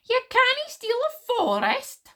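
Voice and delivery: high, loud, drawn-out indignant yell. A narrator's reading. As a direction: yell it in outrage. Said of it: "yelled Wish".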